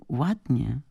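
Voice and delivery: high, savoured echo of the compliment; delighted quote. A narrator's reading. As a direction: repeat it dreamily, thrilled. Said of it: "zachwyciła się Tatiana".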